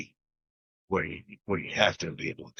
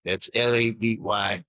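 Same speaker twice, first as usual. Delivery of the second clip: lightly imitated slow Mississippi twang; a touch of Mississippi drawl; slower than usual. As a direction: spell it out slowly, lightly Mississippi. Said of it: "in his Mississippi twang".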